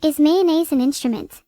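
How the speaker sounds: lightly voiced dopey cartoon starfish; a hint of goofy Patrick; Patrick Star impression. The AI answers the dare, lightly voicing Patrick Star. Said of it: "that sounded exactly like Patrick".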